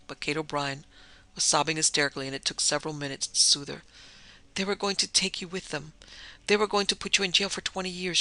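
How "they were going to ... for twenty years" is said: a touch of distress, a bit higher; lightly voiced tearful plea; mild moaning. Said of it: "she moaned".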